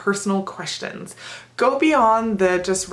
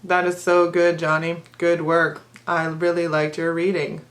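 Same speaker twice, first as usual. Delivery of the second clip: monotone praise. Retold or imitated. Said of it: "I would then answer like that".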